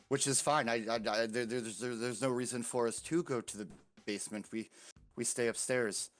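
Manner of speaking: a hint of a nervous child, stammering; lightly voiced girl. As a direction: stumble over repeated words while explaining away trouble. Game master plays the girl.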